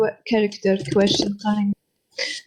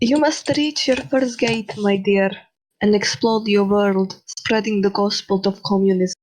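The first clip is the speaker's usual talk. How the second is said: Karl Marx voice. Acted. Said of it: "Repeat that, 'cause I couldn't understand it".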